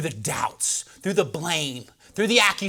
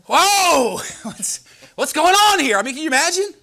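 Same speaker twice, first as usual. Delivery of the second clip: loud, high amazed cry; astonished; 11 semitones higher, 7 dB louder than usual. Pretend. Onlooker seeing the dead man walk out, astonished. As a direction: gasp it out in wonder.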